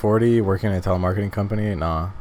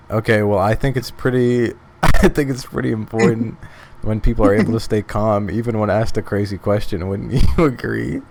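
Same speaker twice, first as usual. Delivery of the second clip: louder, laughing while asking; laughing through it; 2 semitones higher, 5 dB louder than usual. Acted. Player needling the French woman while laughing. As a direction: needle her while cracking up.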